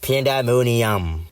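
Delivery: slow, badly faked French accent. Shown as a demonstration. Showing how to guess the word, badly faked French accent. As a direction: stretch "Pandemonium" out in mock French. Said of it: "let me see it in a French accent".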